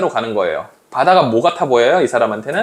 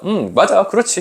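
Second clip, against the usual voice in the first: nodding-along agreement, acted; mildly voiced dawning agreement; empathetic reading; 3 semitones higher than usual. Shown as a demonstration. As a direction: read as if it rings true. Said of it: "이렇게 읽어야 돼".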